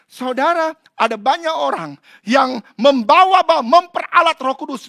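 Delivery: loud, high, impassioned preaching; fiery preaching. Acted. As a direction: preach it out to the congregation. Preacher at full force. (berkhotbah berapi-api)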